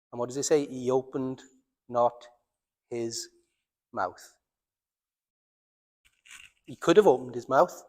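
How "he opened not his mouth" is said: soft, halting, sinking lower at the end; hushed scripture quote. Acted. Preacher quoting how Jesus stayed silent before slaughter, hushed. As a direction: pause between the words, dropping away quieter.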